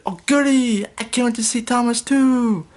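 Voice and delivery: a cowardly lion squealing with glee; giddy Lion. A narrator's reading. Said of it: "Lion said".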